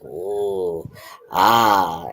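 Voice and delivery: low, put-on leering "ooh, ah"; drawn-out mock-lewd oohing; mock pervert "ooh". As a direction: imitate a lecher's low cooing. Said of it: "he does his pervert thing".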